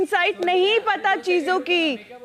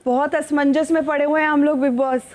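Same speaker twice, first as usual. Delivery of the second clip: playful, lofty Sanskritised Hindi; lofty, formal Hindi, with mock gravity; formal pure hindi; 6 semitones lower than usual. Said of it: "क्लिष्ट हिंदी में कहना चाहेंगी".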